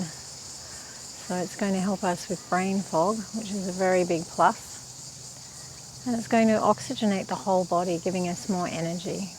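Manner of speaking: calm, even-toned meditation teacher; unhurried meditation instruction, leaving space to breathe; guided meditation. Real, not acted. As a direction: guide them gently through breath practice, with long pauses.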